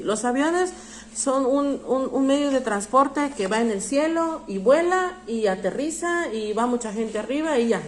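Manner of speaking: lightly mocking the kind of answer to avoid; mock naive answer. Shown as a demonstration. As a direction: sound like a kid rattling off a shallow answer. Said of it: "pero no me voy a parar y decir".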